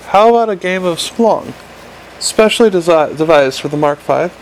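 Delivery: wheedling imp sales pitch; pleading imp. Acted. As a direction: plead like a desperate little gadget. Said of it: "pleaded the imp".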